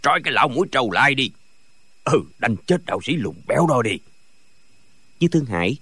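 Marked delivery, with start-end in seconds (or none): 0.0-4.0 rough cursing. A narrator's reading. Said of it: "ngoác miệng chửi".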